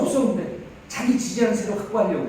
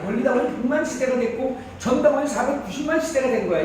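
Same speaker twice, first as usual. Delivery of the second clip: usual speaking voice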